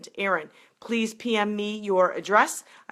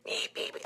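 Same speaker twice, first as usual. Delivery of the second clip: put-on baby chick peeps; 11 dB quieter than usual. Imitating baby chicks peeping.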